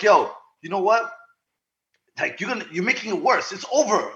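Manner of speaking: imitating an exasperated friend; retold urgent plea. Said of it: "she starts yelling at them, and then Jamal's like".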